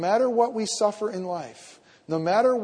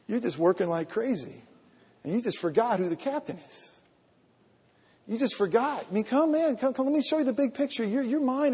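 God's reassuring voice; 5 semitones higher than usual. Retold or imitated. God answering the pastor's prayer, calm then forceful. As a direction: speak as God, gently, then with growing firmness.

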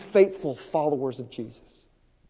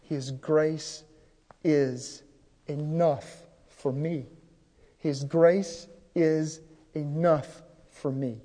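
slow, soft declaration of trust; slow, soft prayerful affirmation; slow quiet confession; 2 semitones lower, 4 dB quieter, much slower than usual. Shown as a demonstration. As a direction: say it gently like a prayer. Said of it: "And you are to say".

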